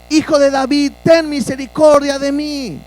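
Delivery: imitating a beggar's insistent cry; retold crying out. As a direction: call out over a crowd, short of a full shout. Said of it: "y a gritar".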